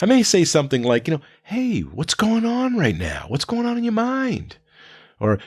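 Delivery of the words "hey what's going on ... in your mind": calm voice. Shown as a demonstration. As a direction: ask gently to settle an upset student. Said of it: "in a calm voice".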